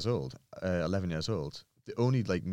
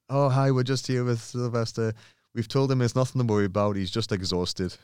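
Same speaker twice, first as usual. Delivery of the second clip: calm paramedic; 4 semitones higher, 3 dB louder than usual. Retold or imitated. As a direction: reassure everyone over the speakerphone. Paramedics on speaker reassuring.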